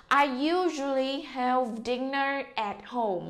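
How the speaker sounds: slow sentence read for repeating. Shown as a demonstration. Teacher slowly reads the sentence again for the class. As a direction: take it slow and clear. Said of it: "đọc lại".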